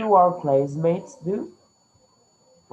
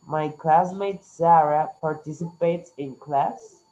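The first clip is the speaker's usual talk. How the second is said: slow, clear model reading; slow model sentence; slower than usual. Shown as a demonstration. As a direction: say it slowly for students. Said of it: "would you like to say with us this sentence".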